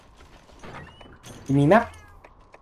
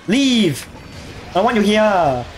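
shooing shout; 4 semitones higher, slower than usual. Real, not acted. Shooing away approaching monster.

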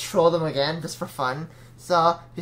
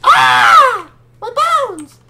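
hammed-up pain; 12 dB louder, much slower than usual. Hammed pain when hit.

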